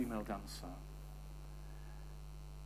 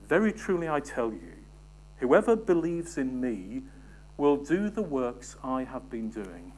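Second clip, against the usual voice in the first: emphatic re-reading; 4 dB louder than usual. Shown as a demonstration. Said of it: "But listen again".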